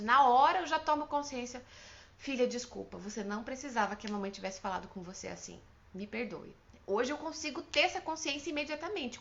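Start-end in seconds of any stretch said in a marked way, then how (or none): 2.2-6.5 put-on soft, lower apology to a child; gentle apology. Mother apologising to her daughter after yelling, gentle apology. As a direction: apologise tenderly, letting the voice sink.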